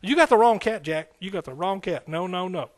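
punched out loud, then settling back; slangy refusal. Retold or imitated. Young man refusing God's call, loud slangy brush-off. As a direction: brush God off in old street slang. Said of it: "That's the way I talk".

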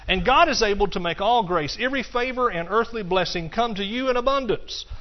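scripture reading. Acted. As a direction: proclaim the verse to the congregation. Reads scripture aloud in sermon.

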